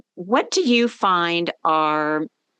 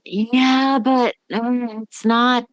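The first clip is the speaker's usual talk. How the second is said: pitched higher, a half-hearted yeah-but brushing off praise; exasperated retold reply; 6 semitones higher than usual. S1 answering friends who list her successes, high exasperated yeah-but. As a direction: play the doubter who won't take the compliment, voice up high.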